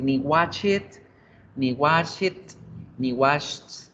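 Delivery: wrong ways to say "washed", some with an added syllable; wrong pronunciations. Shown as a demonstration. Teacher warning students off mistakes, deliberately mispronouncing. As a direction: mispronounce "washed", first as "watch it", then "wash it". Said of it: "No vamos a decir".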